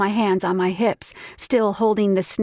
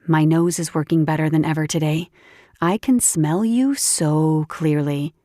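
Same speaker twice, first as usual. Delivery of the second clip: lower, teasing woman's voice; teasing friend voice; 4 semitones lower than usual. Acted. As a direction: tease him playfully.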